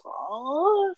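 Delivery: high, soft mock moan. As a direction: imitate a climax with a soft high "oh". Mimics her in sexual climax.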